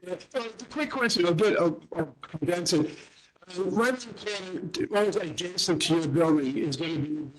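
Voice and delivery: choppy audio still cutting out; garbled phone connection, words dropping out; breaking up. Real, not acted. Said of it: "that isn't any better".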